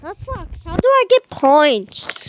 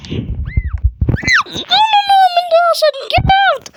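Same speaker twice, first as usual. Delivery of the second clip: high laughing shout of no; laughing yell; 13 semitones higher, slower than usual. Real, not acted. Player shrieking at Mendoza to get out, high laughing yell.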